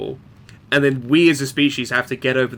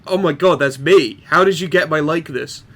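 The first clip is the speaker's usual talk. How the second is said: louder and higher, a jolt of disbelief; shocked self-recognition; 3 semitones higher, 5 dB louder than usual. Retold or imitated. Lookalike explorer reacting to the movie, startled and loud. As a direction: gasp out the shock of seeing yourself.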